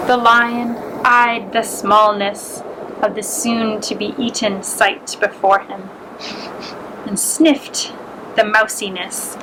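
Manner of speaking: gentle, unhurried storybook read; reading aloud for young listeners at story time; story narration. A narrator's reading. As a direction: tell it like a bedtime fable to little ones. Reads a fable to children.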